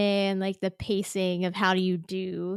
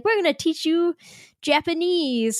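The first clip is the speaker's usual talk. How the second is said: mock proud announcement; 8 semitones higher than usual. Mocking publisher.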